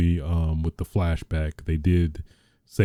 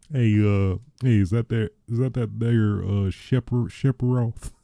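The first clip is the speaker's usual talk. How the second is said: mock Southern dad; 4 semitones higher than usual. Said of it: "a southern ignorant, like, a father to his son".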